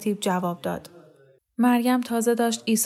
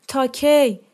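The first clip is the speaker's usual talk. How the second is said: desperate shout, higher and louder; 5 semitones higher, 5 dB louder, much slower than usual. A narrator's reading. Mariam yelling at the nurse across the crowd, loud. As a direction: call out over the crowd. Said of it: "مریم داد زد".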